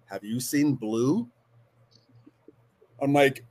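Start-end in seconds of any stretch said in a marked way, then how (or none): 0.1-1.3 mildly voiced calm, slow question. Intruder to homeowner in her living room, very calmly. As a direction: imitate an intruder's eerily calm asking. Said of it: "very calmly he says".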